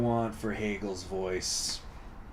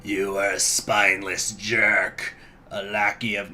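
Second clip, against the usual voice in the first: lightly voiced slow villain; a hint of a film villain, slow; Palpatine; 3 semitones lower than usual. Shown as a demonstration. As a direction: draw it out slowly as a villain.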